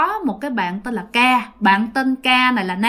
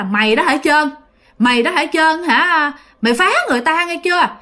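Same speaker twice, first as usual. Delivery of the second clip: mildly scolding grandmother, pitched up; lightly acted telling-off, higher on the warnings; 5 semitones higher than usual. Grandmother warns her dead grandson to stop bothering tenants, mildly scolding. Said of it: "bà ngoại còn la thêm".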